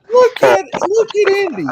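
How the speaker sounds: high, loud call-out; excited shout. Real, not acted. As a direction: call it out, pointing and delighted. Calling out a friend's comment.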